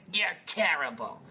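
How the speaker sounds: slow, drawn-out mock disgust; imitated scolding. Partner scolding him over the game, slow mock reproach. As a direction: stretch the accusation in mock reproach.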